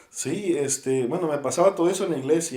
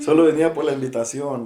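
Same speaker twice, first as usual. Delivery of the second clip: laughing; 8 dB louder than usual. Real, not acted. Laughing at his own shyness.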